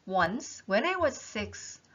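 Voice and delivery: very slow deliberate reading; slow text reading. Shown as a demonstration. Teacher rereading the line slowly for students. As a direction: stretch each word for learners. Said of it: "여기까지만 보실래요".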